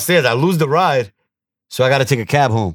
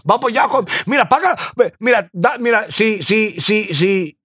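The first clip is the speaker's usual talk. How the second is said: higher mock Dominican Spanish cab driver; 7 semitones higher than usual. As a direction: Dominican cabbie rattling off Spanish, pitched up. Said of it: "The Dominican niggas be wavy".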